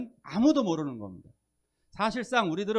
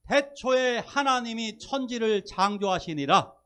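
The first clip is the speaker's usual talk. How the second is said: loud, slow, higher-pitched Bible reading; stately, raised scripture voice; scripture declamation; 5 semitones higher, 5 dB louder than usual. Real, not acted. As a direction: proclaim the verse grandly, drawing it out. Declaims a Bible verse from Genesis.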